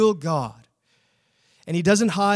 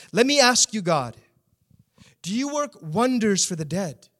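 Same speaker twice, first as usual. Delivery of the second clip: sarcastic question; 3 semitones higher than usual. Acted. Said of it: "He's almost speaking sarcastically".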